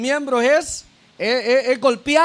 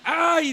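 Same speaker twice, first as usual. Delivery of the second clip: imitated cry of pain; 5 semitones higher than usual. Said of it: "empieza la boca a gritar".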